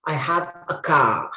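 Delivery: "car" pronounced "kah"; silent R. Shown as a demonstration. Teacher repeating the example for students, "car" without its R. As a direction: drop the R at the end of "car". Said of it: "R is also silent".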